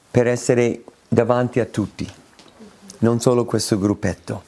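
ordinary talk

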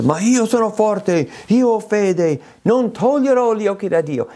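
high, self-assured mock boast; proud boast. A preacher mimicking a self-confident believer, high proud boast. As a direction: puff up as the overconfident believer. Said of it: "Chi pensa".

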